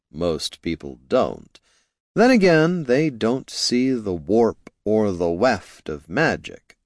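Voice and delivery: measured, slow wizard explaining; lightly voiced, slow and lofty; slow sage. Jin speaks slow and grave.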